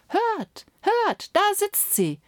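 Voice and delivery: put-on high, excited child's call; eager little girl. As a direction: point it out with delight like a small girl. Girl points out the nightingale.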